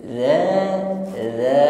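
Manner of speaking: "dza" with a soft th as in "this"; "dza" without any hissing; soft dzal. Shown as a demonstration. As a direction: say "dza" gently, tongue between teeth. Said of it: "lembut pengucapan huruf dal".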